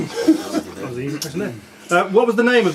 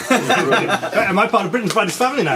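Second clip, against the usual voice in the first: asking through real laughter; laughing; 3 semitones higher than usual. Real, not acted. Quizmaster laughing at a mate's naming slip on the call. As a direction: laugh the question out, amused.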